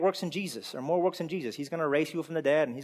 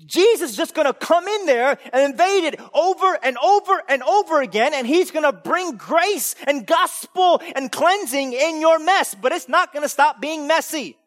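high, loud preacher's proclamation; fiery preaching; 11 semitones higher, 8 dB louder than usual. Acted. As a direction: preach it hard and stretch the big words. Preaching at full force.

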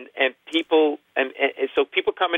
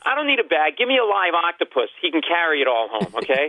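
mock yelling rant; 5 semitones higher than usual. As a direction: argue back like a worked-up customer. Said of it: "And I'm yelling".

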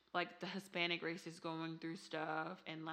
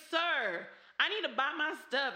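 mock entitled mother; 8 semitones higher, 5 dB louder than usual. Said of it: "she's like".

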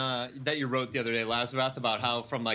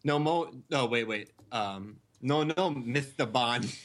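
lisping Goldfinger; 3 semitones lower, slower than usual. Acted. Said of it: "like Goldfinger from Bond".

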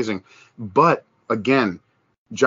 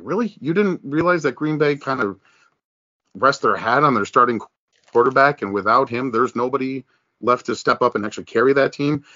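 a rising, disbelieving "Really?" then a lecture; incredulous mockery. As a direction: needle them for missing it. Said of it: "It's like".

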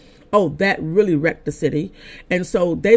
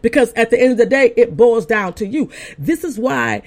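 raised, emphatic preacher's delivery; preaching; 5 semitones higher than usual. Real, not acted. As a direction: exhort the congregation, pitched high. Preaches to the listeners.

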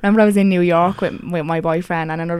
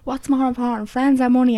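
retold character question; 6 semitones higher than usual. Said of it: "she actually says to them".

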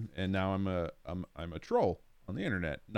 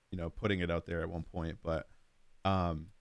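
ordinary talk

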